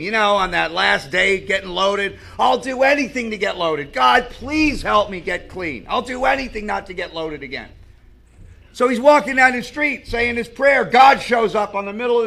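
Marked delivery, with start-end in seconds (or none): 2.4-7.7 retold tearful plea. Crying man praying to God to get clean, retold plea. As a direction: plead lightly, stretching the middle. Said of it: "he's crying 'cause he wants to be clean".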